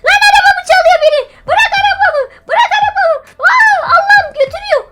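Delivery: high laughing shriek at the thief; laughing shout. Real, not acted. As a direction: scream after the car thief half in fun. Her car is being stolen.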